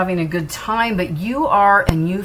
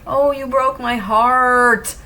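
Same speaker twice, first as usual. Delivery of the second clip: slow, higher, heartbroken plea from the absent lover; voicing the person; 6 semitones higher, slower than usual. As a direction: speak as the hurt partner, slow and aching. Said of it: "your person would like to say this to you".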